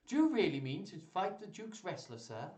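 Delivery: lightly acted concerned maiden; anxious young lady.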